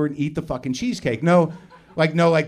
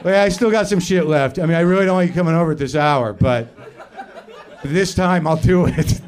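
louder, grudging dealer putting up with a late customer; drug dealer voice; 5 dB louder than usual. Retold or imitated. Host acting as dealer letting the late visitor in, louder and grudging. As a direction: play a lightly voiced dealer doing a favour. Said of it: "it was like a drug dealer".

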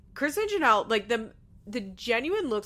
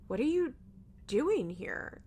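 retold bewilderment; 4 semitones higher, slower than usual. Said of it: "are so confused".

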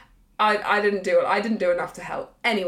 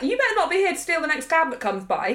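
loud warning; 6 semitones higher than usual. Retold or imitated. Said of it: "And I said loudly".

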